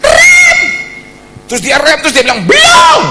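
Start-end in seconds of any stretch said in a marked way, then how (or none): 0.0-0.6 piercing high, loud yell; one urgent burst; screamed order. Retold or imitated. Passenger orders his brother to brake, screaming. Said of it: "udah teriak merah, terus rem". 2.4-3.0 very high, loud shout; yelled retort. Retold or imitated. Brother retorts to his passenger while driving, shouting. Driver yells back at passenger.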